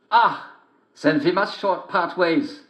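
high sly wolf voice; big bad wolf sweet-talking a girl. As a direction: greet her like a cunning wolf. Wolf replies.

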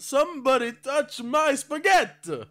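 high, slow, loud shout. Acted. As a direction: yell it out as a dare. Daring friends to touch spaghetti.

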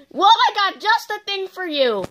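salesman pitch. Acted.

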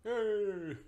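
high loud cheer. Real, not acted. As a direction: cheer with delight.

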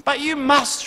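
high, loud frantic shriek. Retold or imitated. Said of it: "shrieked his friend".

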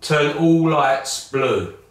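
slow, clear command to a smart speaker; voice assistant command. Real, not acted. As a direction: spell it out slowly for the speaker. Voice command to Google Home.

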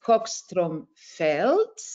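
slow, careful Swedish accent on the name. Shown as a demonstration. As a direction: try a Swedish accent on Skogstrom Felt. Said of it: "with my best Swedish accent".

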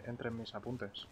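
ordinary delivery

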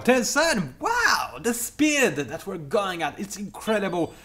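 hammed-up sarcastic cheer; mock excitement. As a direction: overblown fake thrill at the pace. Sarcastic hype about slow game.

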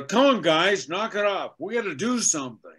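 the earnest leader calling the team to order; a touch of the serious turtle hero; Leonardo's lines. Retold or imitated. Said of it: "His lines were".

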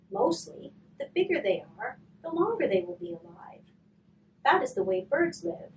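storybook read-aloud, unhurried with pauses; story narration. Acted. Hospice reader sharing a favorite book with kids, storybook narration. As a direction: read it like a picture book to a child.

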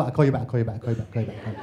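I'll call you back repeated fast and trailing off; rapid repeated goodbye. Shown as a demonstration. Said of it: "We gotta go".

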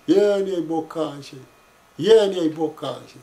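slow, drawn-out mock lament; understated imitation of a child's wail; retold tearful plea. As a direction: stretch it into a mournful chant. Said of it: "plângând să ne iei niște bocanși".

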